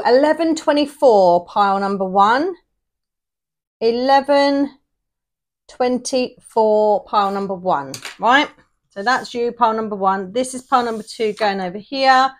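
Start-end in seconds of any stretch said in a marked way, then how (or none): 0.1-7.9 bingo call. Pretend. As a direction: sing out the number like bingo. Calling numbers bingo-style.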